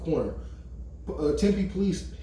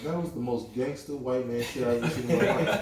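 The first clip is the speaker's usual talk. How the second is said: laughing retelling. Retold or imitated. Retelling amazed words to class.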